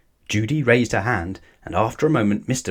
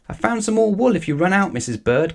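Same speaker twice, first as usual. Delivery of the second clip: much higher, louder helpful call; 10 semitones higher, 3 dB louder than usual. A narrator's reading. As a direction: call across to the knitting lady. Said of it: "called Paddington".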